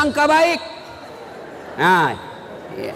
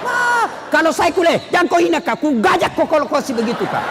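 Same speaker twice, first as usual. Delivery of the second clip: half-joking angry retort; mock offended outburst; 4 semitones higher, faster than usual. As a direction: play an insulted man threatening back. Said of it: "Eh, andai".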